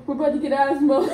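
mock recruit voice, laughing; imitated scared recruits. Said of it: "They sound like this".

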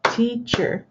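"teacher" said slowly in two parts, tea-cher; split into syllables. Shown as a demonstration. Teacher demonstrating a split word to the class, "teacher" in two syllables. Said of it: "and we split it".

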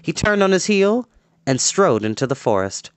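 steady storyteller reading an adventure aloud; story narration. A narrator's reading. Storyteller reading a battle chapter to kids, dramatic narration. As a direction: read the fight scene to the kids, building tension.

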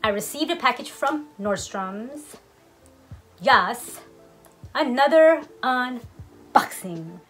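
through a face mask. Real, not acted. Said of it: "forgive the mask".

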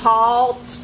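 loud, level robot order; commanding. A narrator's reading. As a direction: order it loudly like a machine. Robot orders Rabbit to stop.

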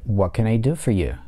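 what can I do for you with do stressed; stress on do, falling. Shown as a demonstration. Teacher models a wh-question falling on do. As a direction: hit do and let the tune fall. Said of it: "падает на глагол do".

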